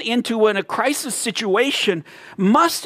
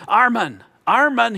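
retold call, slightly raised voice; mild calling out; 3 semitones higher, 3 dB louder than usual. Father calls out to his buried son, mildly calling. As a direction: call the name out twice, lightly acted. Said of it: "he called out to him".

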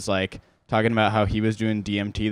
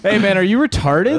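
high-pitched retold disbelief; acted-out incredulous question; mock incredulity; 8 semitones higher, 4 dB louder than usual. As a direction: challenge him in baffled, exaggerated disbelief. Retold incredulous reply to classmate.

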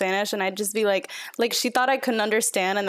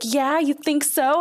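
sly comeback; 4 semitones higher, 3 dB louder, slower than usual. Retold or imitated. Girls insult her in Spanish.

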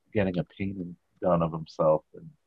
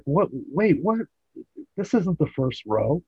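higher, louder baffled questioning; mock disbelief; 10 semitones higher, 4 dB louder than usual. Retelling George finding he's not in the first row, mock disbelief. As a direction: play a thrown, incredulous double take. Acts George's shock at seats.

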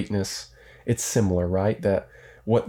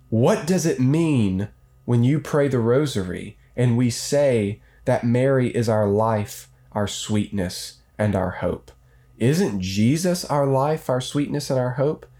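anxious questions, rising pitch; worried parishioner; 3 semitones higher than usual. Pretend. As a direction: plead like a troubled visitor. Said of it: "someone knocks on the door and says".

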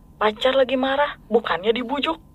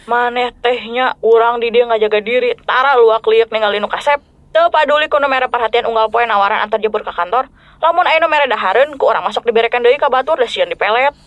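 rough Sundanese scolding. Acted. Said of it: "Masa cewek ngomongnya kasar kayak gitu".

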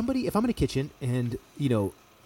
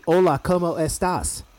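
Spanish phrase; 4 semitones higher, slower than usual. Shown as a demonstration. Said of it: "like, if I were to say".

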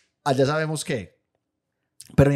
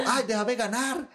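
high, soft wheedling plea; pleading mom; 8 semitones higher, 4 dB quieter, slower than usual. Retold or imitated. Mom begging dad during a game, high and whiny. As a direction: beg sweetly to be let win.

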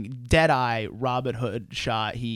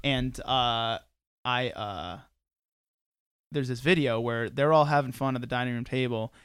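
ordinary delivery

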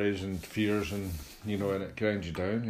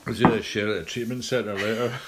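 squeaky ventriloquist dummy; 3 semitones higher, 7 dB louder than usual. Pretend. Joking in dummy voice.

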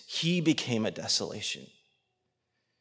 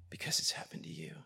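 tender whisper. Real, not acted. Preacher whispering sorrow to hurting listeners. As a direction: whisper it like a confession to one person. Speaking to abuse survivors.

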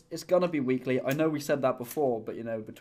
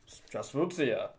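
breaking character giggling; 3 semitones lower than usual. Shown as a demonstration. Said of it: "I can't do it with a straight face".

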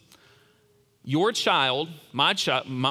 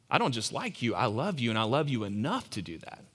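tender reassurance; 3 semitones lower, 5 dB quieter than usual. Retold or imitated. Father reassuring his child.

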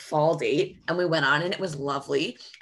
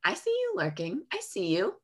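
playful creepy call-out; 4 semitones higher than usual. Pretend. Calling out the ghoster who views her stories, playfully creepy.

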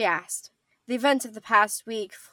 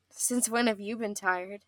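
lightly. Acted. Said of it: "she asked lightly".

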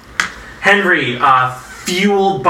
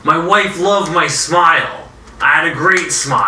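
higher, whiny lament; hurt goon; 3 semitones higher than usual. Acted. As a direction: whimper about his smile. John keeps whining.

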